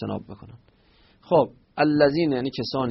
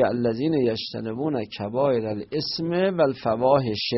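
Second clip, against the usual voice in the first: reciting verse. Shown as a demonstration. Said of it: "یعنی اینطوری".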